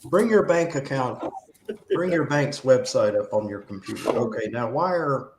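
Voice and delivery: lightly put-on Indian call-centre accent; a hint of an Indian phone scammer asking for the password; mock Indian scammer accent. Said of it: "with my Pakistani American accent".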